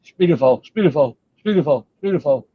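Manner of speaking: lightly mocking, slurred repetition; mocking poor speech. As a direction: mimic someone stuck on one phrase. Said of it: "He can't even speak straight. He just say".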